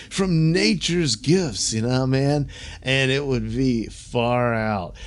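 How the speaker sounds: slow, dreamy stoned hippie drawl; lightly hammed-up far-out hippie; mock hippie. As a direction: lazily voice a spaced-out hippie. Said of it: "response to the hippie drug culture".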